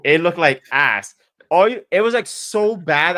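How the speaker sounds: laughing. Real, not acted. Laughing at the awful website.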